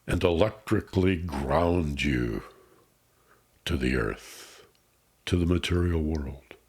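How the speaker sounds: unhurried meditation guide with long pauses; guided meditation. Acted. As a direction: ease the listener into calm, phrase by phrase. Leads a grounding meditation.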